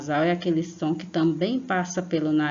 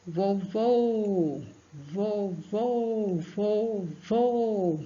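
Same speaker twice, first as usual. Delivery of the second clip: vovô higher, stress on the final vô; stress on second vô; 3 semitones higher, much slower than usual. Shown as a demonstration. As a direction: lean on the last syllable of vovô. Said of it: "A sílaba forte é o segundo vô". (tônica no segundo vô)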